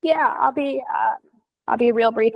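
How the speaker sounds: losing voice after flu; rough, worn-out recovering voice; hoarse voice. Real, not acted. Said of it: "my voice is gone".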